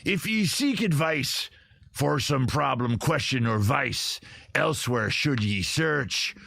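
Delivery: lightly voiced ghost pirate, slow and drawn out; a hint of a spooky old sea dog reading a poem. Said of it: "I'll do it like him".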